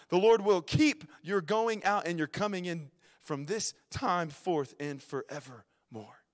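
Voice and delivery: measured proclamation, slowing at the close; scripture reading. Real, not acted. Preacher closing a psalm for the congregation, proclaimed scripture reading.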